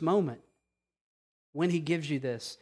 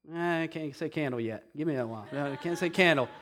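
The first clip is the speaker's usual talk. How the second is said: put-on baby's excuse; 3 semitones lower, 5 dB quieter, faster than usual. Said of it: "She's like".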